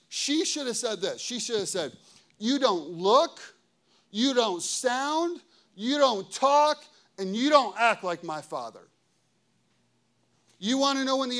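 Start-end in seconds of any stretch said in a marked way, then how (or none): 2.4-8.9 slow, measured beats on each verb; firm rebuke. Acted. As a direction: land each verb firmly, then pause. Scripted firm rebuke to the enemy.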